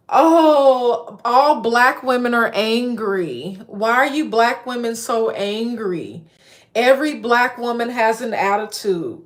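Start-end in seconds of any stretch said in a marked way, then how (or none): 0.1-6.2 mocking stereotype voice. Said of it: "when you do that as a black woman".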